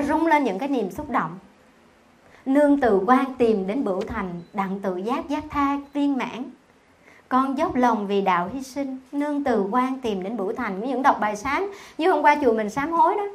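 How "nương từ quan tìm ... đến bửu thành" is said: slow, devout chanting of the verse; sutra recitation. Acted. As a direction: recite it like a prayer in the temple.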